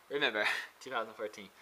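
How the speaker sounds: amused, laughing at himself. Real, not acted. Laughs while repeating the date.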